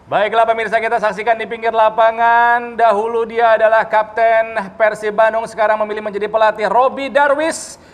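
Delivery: sports commentator voice; football commentator. Pretend. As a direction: call it like a match broadcaster. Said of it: "kalian harus komentarin ala-ala komentator bola".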